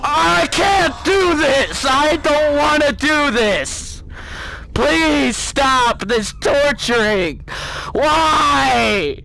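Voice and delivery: slow drawn-out frightened shouting; tortured player begging; desperate plea. Real, not acted. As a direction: beg it to stop. Desperate in horror game.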